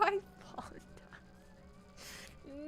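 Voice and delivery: breathy high whisper, stunned; disbelieving whisper. Real, not acted. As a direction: whisper it as if you can't believe it. After dying, whispers in disbelief.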